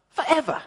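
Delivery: forever said high and long, falling; stretched forever. Retold or imitated. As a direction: lean into forever as a wry echo. Echoing the endless wait.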